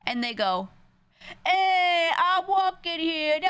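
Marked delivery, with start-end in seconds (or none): 1.5-3.4 loud, high, drawn-out mock New York shout; hammed-up New York accent. Imitating people who parrot a New Yorker, hammed-up New York accent. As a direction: bellow it like a bad New Yorker impression. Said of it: "start doing an entire practice routine".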